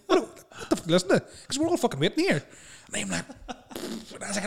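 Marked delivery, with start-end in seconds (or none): 0.1-2.4 high loud heckling; shouting comedian. Retold or imitated. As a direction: bellow it at the crowd like a comedian. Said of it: "and he's like".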